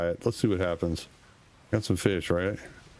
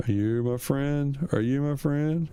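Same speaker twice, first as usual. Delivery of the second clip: coaxing; 4 semitones higher than usual. Pretend. Coaxing a creature.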